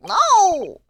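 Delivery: loud, high barked no; flat refusal. Real, not acted. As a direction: refuse it outright. Player refuses Holmes's offer.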